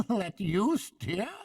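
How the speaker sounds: slow, high amused disbelief; laughing. A narrator's reading. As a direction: laugh through the question. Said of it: "replied the barge woman, laughing".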